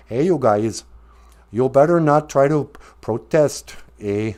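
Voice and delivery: mild mock Canadian accent with "eh"; Justin Trudeau. Politician feebly warning people not to protest, hint of Canadian accent. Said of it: "Justin Trudeau".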